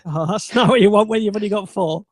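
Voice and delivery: normal talking voice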